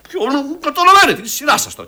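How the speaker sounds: urging them on. Acted. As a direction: call the next turn, voice up. Director hurries actors on.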